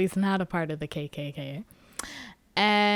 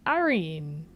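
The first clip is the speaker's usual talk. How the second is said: higher, louder exasperated plea; pleading with Irene; 7 semitones higher, 5 dB louder than usual. Retold or imitated. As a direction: urge her, come on. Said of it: "looking at Irene like".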